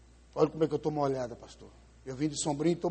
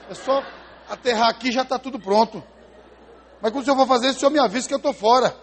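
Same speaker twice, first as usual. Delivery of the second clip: angry prayer; 5 semitones higher, 8 dB louder than usual. Retold or imitated. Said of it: "Aí eu entrei em crise".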